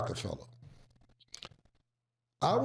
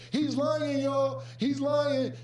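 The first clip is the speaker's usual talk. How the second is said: high, hushed, urgent accusation; mock paranoid Dame; 11 semitones higher, much slower than usual. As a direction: hiss it up high like he's sure he's bugged. Dame claiming office is wired.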